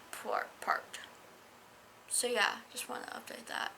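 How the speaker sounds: soft unvoiced whisper; whispered aside. Real, not acted. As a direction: whisper it so nobody wakes. Whispering reading vlog update.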